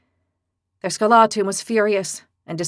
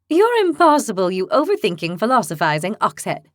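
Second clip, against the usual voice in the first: exasperated; 4 dB louder than usual. Acted. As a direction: scold him fondly. Lily exasperated jab.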